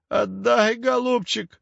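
put-on high, nasal, whining old-witch plea; nasal whining hag. A narrator's reading. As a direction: whine it through the nose like a nasty old crone. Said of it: "загнусавила противным голосом". (гнусавый противный голос старухи)

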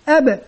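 أب with the ب bounced out as ebe; qalqala shown. Shown as a demonstration. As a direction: let the ب echo after the stop. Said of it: "ويبدأ يبين".

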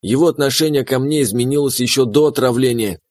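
usual speaking voice

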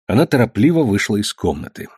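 ordinary delivery, nothing marked

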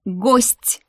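a short barked correction. Acted. Werewolf madam correcting the maid, a sharp bark. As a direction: snap the word at her. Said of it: "рявкнула на меня эта оборотница".

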